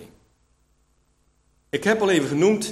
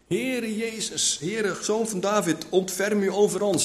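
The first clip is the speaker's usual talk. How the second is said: imitated calling out; 5 semitones higher, 4 dB quieter than usual. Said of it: "Dat riepen ze".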